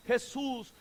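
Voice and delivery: quiet, restrained call; soft eloquent call. Retold or imitated. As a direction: call the name softly. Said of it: "seguramente con elocuencia".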